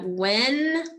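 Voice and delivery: "winter" broken in two, win, pause, ter; split into syllables. Shown as a demonstration. Teacher giving the class the syllables, "winter" split apart. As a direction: say "winter" syllable by syllable with a clear gap. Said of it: "What are the syllables".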